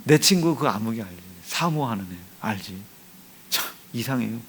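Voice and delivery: a soft, gossiping wife whispering to her husband; hushed wife voice. Retold or imitated. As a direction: lean in and tell it quietly. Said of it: "혜랑이한테 가서 그래". (남편에게 속삭이는 아내, 조용히)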